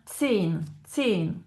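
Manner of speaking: "zehn" starting with a clear ts; clear initial t. Shown as a demonstration. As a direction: begin "zehn" on ts, like German Z. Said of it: "on a bien le t". (« zehn » commencé par un ts net)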